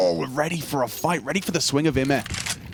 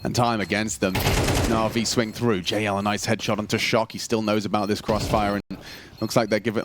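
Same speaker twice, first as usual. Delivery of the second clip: esports caster. Acted. Low steady play-by-play then hype.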